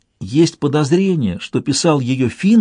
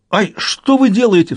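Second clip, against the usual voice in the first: panicked cry; 8 semitones higher than usual. Acted. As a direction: shriek it as someone grabs your treasure. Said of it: "вскричал Яша не своим голосом".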